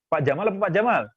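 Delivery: Jamal said first short, then with a long first vowel. Shown as a demonstration. Preacher warning the congregation, contrasting Jamal's vowel lengths. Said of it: "hati-hati kalau manggil Pak Jamal".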